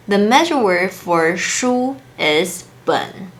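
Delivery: slow and deliberate, landing on 本; careful correction. Shown as a demonstration. Teacher correcting the chatbot's wrong measure word, slow and deliberate. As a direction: spell out the right measure word slowly, stressing 本. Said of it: "We'd never say 几个书".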